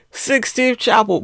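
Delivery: mock-solemn catchphrase; mock dramatic. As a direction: say it like a grand reveal while handing over. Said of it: "I'm like".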